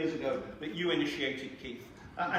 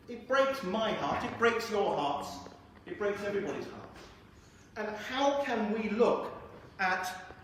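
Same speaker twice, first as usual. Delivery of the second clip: measured, emphatic political oratory; impassioned appeal; 4 semitones higher than usual. Real, not acted. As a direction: appeal to the crowd's conscience, weighing each phrase. Impassioned appeal about Yemen.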